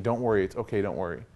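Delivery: soft, low comforting; gentle reassurance. Retold or imitated. Ashamed parent wiping your tears, softly reassuring. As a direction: play down the hurt, quietly. Parent hiding hurt from crying child.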